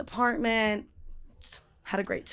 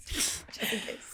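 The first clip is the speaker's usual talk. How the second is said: whispering; 9 dB quieter, slower than usual. Real, not acted. Aside whisper.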